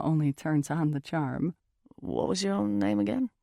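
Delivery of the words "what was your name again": put-on raised British-accented question. A narrator's reading. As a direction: ask casually in a British accent. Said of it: "He has this British accent".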